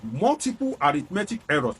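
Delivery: "multiple" leaned on as the key word; stress on multiple. Real, not acted. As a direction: underline "multiple", then carry on through the phrase. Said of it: "underline the word".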